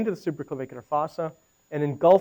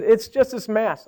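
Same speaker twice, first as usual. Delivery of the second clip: slow, higher imitation of a department head; head of ENT; 5 semitones higher, slower than usual. Head of ENT explaining the case to radiologist, slow imitated voice. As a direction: mimic a colleague, drawn out and raised. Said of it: "You should talk like this".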